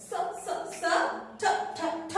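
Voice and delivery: soft, short "স" and "ঠ", each repeated alone; separate sounds. Shown as a demonstration. Teacher splitting S and T for children, separate sounds. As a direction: say "স, স, স, ঠ, ঠ, ঠ" softly, sound by sound. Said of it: "এই দুইটা আলাদা বলবো".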